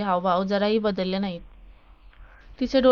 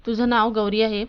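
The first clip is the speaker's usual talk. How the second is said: a lightly raised, stern question; mild mock shout; 4 dB louder than usual. Principal scolding a student who keeps interrupting, mild mock shout. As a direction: snap the question at the student, only a little louder. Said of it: "पुन्हा ओरडतात".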